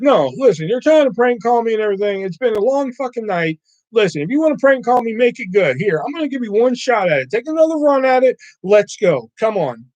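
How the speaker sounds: exasperated challenge. Retold or imitated. Acts out scolding the prank caller.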